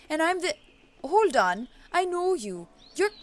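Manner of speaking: high, loud witch doctor, mock Jamaican; attempted Jamaican accent. Witch doctor recognizes the girl at the grave, attempted Jamaican accent. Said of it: "shoot for a Jamaican accent".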